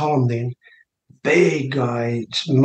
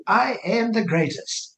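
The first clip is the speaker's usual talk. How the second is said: boastful Ali quote; 6 semitones higher, 4 dB quieter, slower than usual. Retold or imitated. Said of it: "Muhammad Ali would sit there and say".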